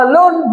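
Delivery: "alone" drawn out as two separate syllables, a - lone; split into syllables. Shown as a demonstration. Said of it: "দুটো syllable আছে". ("alone" দুই সিলেবলে ভেঙে, আ - লোন টেনে বলা)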